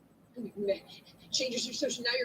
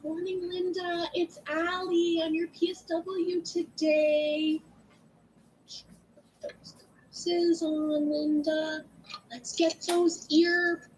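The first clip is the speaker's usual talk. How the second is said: slow and louder, every word spelled out; clear greeting to client; 3 semitones higher, 6 dB louder, much slower than usual. Shown as a demonstration. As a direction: greet a hard-of-hearing client slowly and loudly. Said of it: "why do I say when you go into your client's room".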